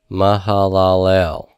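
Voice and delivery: "mahalalel" said slowly and joined up, ma-ha-la-LEL; Hebrew pronunciation. Shown as a demonstration. Teacher repeating the Hebrew name for learners, slow careful pronunciation. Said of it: "So this is pronounced".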